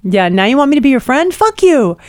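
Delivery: lightly hammed-up outrage as the rat; indignant rat. Speaking as the rat thrown in with a snake, mock indignant. Voicing the resentful rescued rat.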